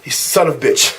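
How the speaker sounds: low-pitched take on a coworker's broken English. Retold or imitated. Shop guy griping about a coworker, in lightly put-on broken English. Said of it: "in their broken English".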